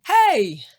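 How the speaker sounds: lazy lad calling to his sisters-in-law from the stove. A narrator's reading. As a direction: shout lazily from the stove top. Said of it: "and called".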